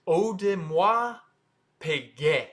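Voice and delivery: Audemars Piguet drawn out as oh-duh-mwah, pee-gay; slow French pronunciation. Shown as a demonstration. Teacher breaks the name down for viewers, slow French pronunciation. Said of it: "start with O".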